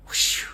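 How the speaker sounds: imitated whoosh of something thrown. Storyteller imitating a shirt thrown at a truck, whoosh. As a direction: blow out an airy whoosh.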